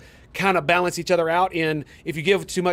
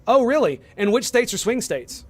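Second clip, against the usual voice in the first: sarcastic challenge; 6 semitones higher than usual. Real, not acted. Challenging opponent's claim.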